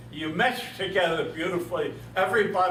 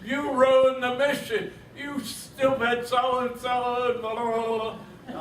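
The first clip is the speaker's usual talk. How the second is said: retold scream; 7 semitones higher, slower than usual. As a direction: shout it out as the furious navigator. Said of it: "starts to scream at me".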